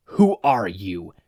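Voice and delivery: cold demand. Acted. Chisaki confronting Izuku at the door, icy. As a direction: freeze him with the question. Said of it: "Chisaki asked coldly".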